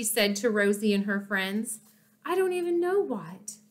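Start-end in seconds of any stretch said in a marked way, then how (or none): 2.2-3.6 choking back tears. A narrator's reading. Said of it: "Her voice trailed off as she choked back tears".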